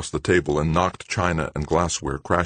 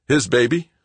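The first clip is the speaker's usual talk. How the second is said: stunned, raised; shocked; 7 semitones higher, 6 dB louder than usual. Acted. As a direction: gasp it out. Greg panting in shock.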